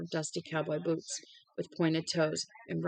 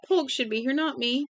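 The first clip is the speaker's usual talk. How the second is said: higher, louder panicked scream; terrified shout that it wasn't him; 8 semitones higher, 4 dB louder than usual. A narrator's reading.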